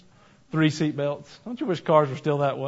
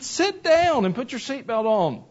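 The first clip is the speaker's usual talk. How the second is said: put-on a slow, firm dad ordering his girl to sit, pitched higher; dad telling his daughter to sit down, firm and slow; stern father; 9 semitones higher, slower than usual. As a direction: lay down the law to a standing child. Father scolds standing daughter.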